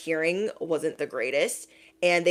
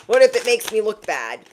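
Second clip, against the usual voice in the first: higher, louder whine; whiny petty voice; 4 semitones higher, 5 dB louder than usual. Retold or imitated. Whiny repeat.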